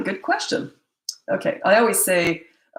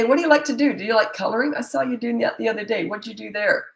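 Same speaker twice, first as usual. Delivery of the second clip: put-on higher, eager questions to a child; friendly curious asking; 5 semitones higher than usual. Shown as a demonstration. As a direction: keep it light and interested. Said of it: "you say".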